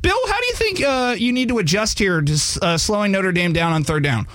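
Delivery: high-starting imitation of a reporter's question; sideline reporter. Guest playing the reporter questioning a coach, high-pitched imitation. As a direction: pitch it up as a polite interviewer. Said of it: "the poor girl goes up to ask him a question".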